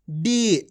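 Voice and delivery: डी with a long, drawn-out ee. Shown as a demonstration. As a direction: stretch the vowel of डी for learners. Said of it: "इस तरीके से इसका उच्चारण".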